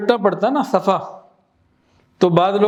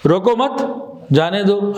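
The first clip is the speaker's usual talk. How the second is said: روکو مت joined and rising, stop, then جانے دو; pause after مت. Shown as a demonstration. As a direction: break the phrase after مت. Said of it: "صرف stop کا فرق آ گیا". (روکو مت کے بعد ٹھہر کر)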